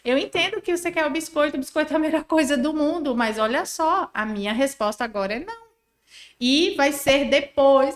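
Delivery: soothe, then hold the line; gentle but firm parent. Shown as a demonstration. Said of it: "validando o que ele tá sentindo".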